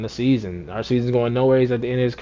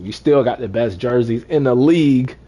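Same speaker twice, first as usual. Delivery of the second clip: emphatic; 6 dB louder than usual. Real, not acted. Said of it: "Don't get it twisted".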